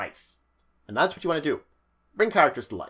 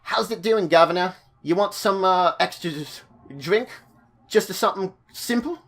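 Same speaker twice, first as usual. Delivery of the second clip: put-on higher-pitched barmaid, rough casual accent; simple barmaid; 4 semitones higher than usual. Barmaid offering the governor a drink, simple and casual. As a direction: play a simple tavern server offering a drink. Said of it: "like, a barmaid".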